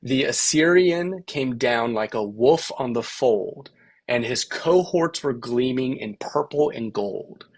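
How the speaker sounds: slow, measured verse with a steady three-beat lilt; poem recitation. Shown as a demonstration. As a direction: read it slowly, letting the rhythm carry the words. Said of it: "I'll just read a little bit of it".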